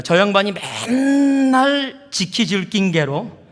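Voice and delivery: high, loud, drawn-out Gyeongsang accent; imitated Gyeongsang twang, exaggerated; Gyeongsang dialect. Shown as a demonstration. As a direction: have a go at Gyeongsang dialect, stretching it out. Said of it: "그래도 노력해 보겠습니다".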